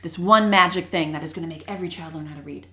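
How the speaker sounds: oversell it with a touch of sarcasm; sarcastic. Real, not acted. Host promising parents a magic fix, lightly sarcastic. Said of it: "If you don't hear the sarcasm in my voice".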